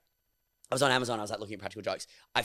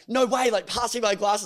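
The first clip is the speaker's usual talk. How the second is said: mock surprise; 9 semitones higher, slower than usual. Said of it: "I'm like".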